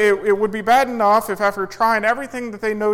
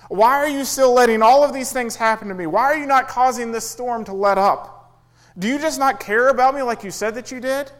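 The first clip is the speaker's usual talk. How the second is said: mild exasperated whine, somewhat louder; complaining to God; 4 semitones higher, 4 dB louder than usual. Acted. Believer blaming God in the storm, mock exasperated. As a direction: plead and accuse at once, half-hearted.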